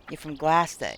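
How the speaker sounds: Boston accent, Gloucester as klæstə; flat Boston a in Gloucester; Boston accent demo. Shown as a demonstration. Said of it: "You gotta say".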